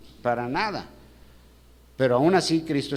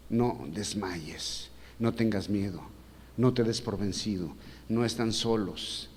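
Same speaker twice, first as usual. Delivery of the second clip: reassuring; 3 semitones lower, 4 dB quieter, slower than usual. Acted. Voices Jesus reassuring the fearful.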